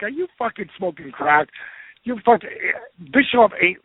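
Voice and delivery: worked-up disbelief, replayed in a story; retold incredulous retort. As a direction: act out calling a friend crazy. Retelling his disbelieving retort to friend.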